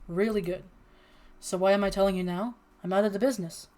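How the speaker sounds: ordinary talk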